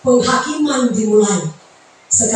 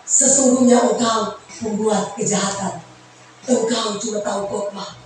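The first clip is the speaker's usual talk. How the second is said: low, soft judging voice; God's stern verdict; 4 semitones lower, 5 dB quieter than usual. Pretend. God rejects the preacher, low soft stern verdict. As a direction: pronounce the sentence quietly and gravely. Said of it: "Tuhan bilang".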